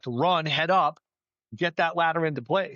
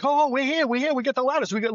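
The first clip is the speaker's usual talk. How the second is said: much higher, urgent mock yell; retold yelling; 10 semitones higher, faster than usual. Firefighter calling to trapped people that ladders are coming, mock yell. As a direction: imitate yelling up to people in danger, voice pitched high. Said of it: "started screaming and yelling at them".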